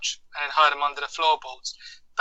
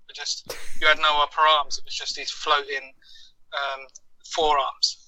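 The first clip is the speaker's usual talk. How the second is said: tinny, muffled headset mic; sounding like a tin can phone. Real, not acted. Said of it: "You sound like you are talking through a tin can".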